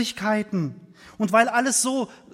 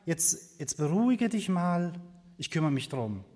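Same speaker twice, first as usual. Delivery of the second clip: softer, lower fatherly reassurance by the end; reassuring father; 3 semitones lower, 3 dB quieter than usual. Retold or imitated. Father soothing his worried child, reassuring. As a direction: settle gently into a calming promise. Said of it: "und der Vater sagt".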